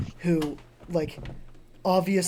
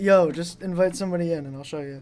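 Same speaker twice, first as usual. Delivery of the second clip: normal talking voice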